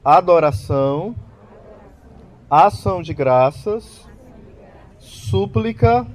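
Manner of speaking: slow, spaced-out words for the audience to repeat; dictating for repetition. Shown as a demonstration. Preacher dictating the four dimensions for listeners to say along, slowly. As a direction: lay out each item deliberately so they can echo it. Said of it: "Diga comigo".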